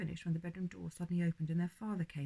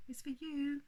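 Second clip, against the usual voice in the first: calling out; 8 semitones higher than usual. A narrator's reading. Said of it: "their mother called".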